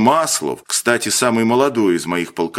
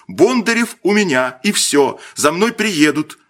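put-on a boy's insistent cry, raised; confident shout; 8 semitones higher than usual. A narrator's reading. Boy insisting to the officer, shouting with conviction. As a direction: call it out with conviction. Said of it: "убеждённо выкрикнул он".

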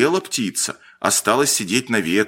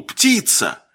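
higher-pitched excited call; boy's cry; 10 semitones higher than usual. A narrator's reading. Boy at a shooting gallery pointing out a target, crying out. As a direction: call it out high, without extra volume. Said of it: "кто-то из мальчишек крикнул".

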